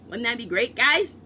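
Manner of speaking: guys shouted high and loud; loudest mock hype. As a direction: top the build with a loud hammed-up Chad hype. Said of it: "I got overtaken by Chad".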